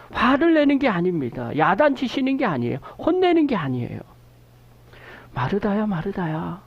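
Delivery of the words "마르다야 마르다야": lovingly calling her name twice, softening on the second; a hint of aching tenderness; tender, pained call. Shown as a demonstration. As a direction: call her gently, full of sorrow for her. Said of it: "안타까워서 얘기하는 거예요".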